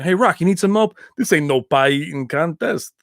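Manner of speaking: lightly voiced boxing-film character; a hint of tough street talker; movie street-guy quote. Quoting Rocky Five for viewers, lightly mocked street voice. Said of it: "was that Rocky Five when he's like".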